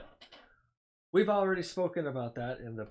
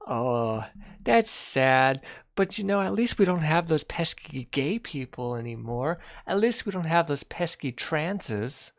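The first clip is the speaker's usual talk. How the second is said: sarcastic; 4 semitones higher, 5 dB louder than usual. Acted. Sarcastic mock of anti-LGBT view.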